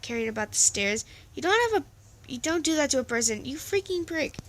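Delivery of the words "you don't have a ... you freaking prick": higher-pitched acted indignation; angry outburst. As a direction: tell someone off, voice jumping up. Angry confrontation voiced in the story.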